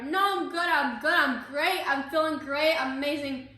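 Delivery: dazed, talking around gauze; gauze in mouth. Retold or imitated. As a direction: numb mouth full of gauze. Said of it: "I had gauze in my mouth".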